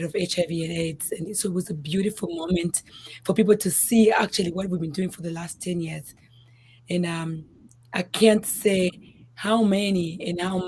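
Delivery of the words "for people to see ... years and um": hoarse from yelling. Real, not acted. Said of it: "My voice is gone".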